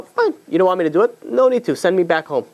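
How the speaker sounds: high-pitched, dismissive 'take it or leave it'; retold hardball refusal; playing tough. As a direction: call their bluff, lightly acted. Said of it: "this is playing a tough ball".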